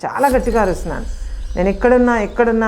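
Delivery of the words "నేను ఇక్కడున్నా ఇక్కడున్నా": shouting for help. Retold or imitated. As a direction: call up again so he hears you. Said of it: "అని అరుస్తుంటే". (గట్టిగా అరుస్తూ పిలుపు)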